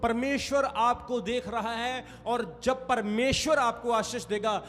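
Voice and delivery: forceful preaching. Acted. Pastor urging the congregation to act in faith, slow and forceful. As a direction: declare it with weight to the church.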